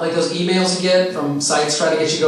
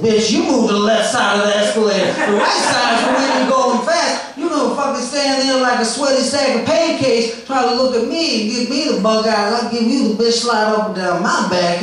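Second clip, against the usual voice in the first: impression of rambling comic, higher; 5 semitones higher than usual. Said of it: "I'm going to do his set for you right now, verbatim".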